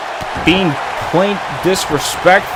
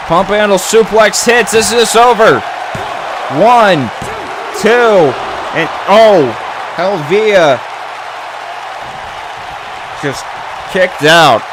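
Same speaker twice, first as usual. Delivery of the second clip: wrestling commentator. Real, not acted. Calls the match play-by-play.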